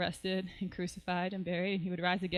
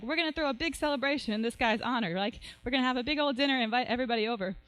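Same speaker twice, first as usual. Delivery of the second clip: mildly acted excitement, higher pitch; higher, lightly excited party planning; overjoyed; 4 semitones higher, faster than usual. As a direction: announce it with a touch of glee. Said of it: "overjoyed and they have so much gratitude".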